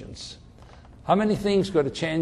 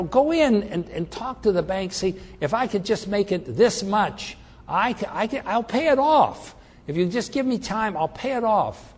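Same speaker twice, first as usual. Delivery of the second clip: higher pleading with the bank; pleading client; 6 semitones higher than usual. Retold or imitated. Client asks the bank for time, higher pleading. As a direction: beg the bank for time, pitched up. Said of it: "I've had clients where I said".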